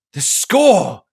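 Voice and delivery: high, loud realising cry; sudden outburst. A narrator's reading. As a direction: blurt it out as it hits you. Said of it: "he burst out".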